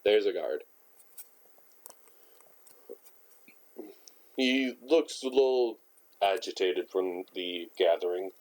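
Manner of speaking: holding back a burp; tight, choked throat; strangled voice. Real, not acted. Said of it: "I'm sorry for sounding like I'm strangled".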